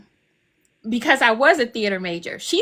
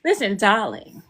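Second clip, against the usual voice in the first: lower, put-on British accent; playful British accent; 4 semitones lower than usual. Grandmother to granddaughter playing nurse, playful British accent. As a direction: play along in a lightly British voice. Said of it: "accent where she's British now".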